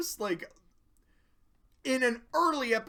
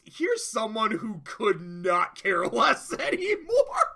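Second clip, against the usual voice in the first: laughing; 2 semitones higher, 6 dB louder than usual. Real, not acted. Laughing at Pinky's new attitude.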